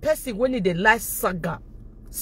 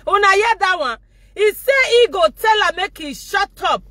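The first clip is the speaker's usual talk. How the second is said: excited mocking call-out; 5 semitones higher than usual. Real, not acted. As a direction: crow over the clip to your viewers. Mocking the clip to viewers.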